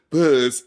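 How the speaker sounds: "puss" stretched as if it had two syllables; imitated extra-syllable pronunciation. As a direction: draw out the vowel in "puss", imitating the actors. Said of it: "like, an extra syllable in there somewhere".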